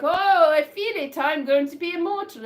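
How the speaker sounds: mock rapture. Young man in the flames, hammed-up rapture. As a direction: overdo the thrill of becoming immortal. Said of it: "And he's like".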